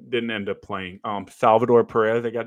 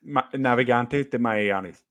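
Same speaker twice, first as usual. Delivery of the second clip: Spanish accent. Real, not acted. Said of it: "I like your Spanish accent".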